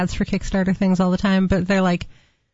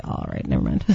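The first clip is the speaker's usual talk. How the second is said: disappointed mutter; 5 dB quieter than usual. Retold or imitated. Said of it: "And Stu was like".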